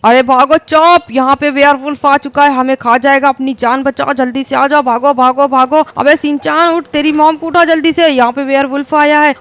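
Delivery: frantic shouting. Acted. Family yelling to flee.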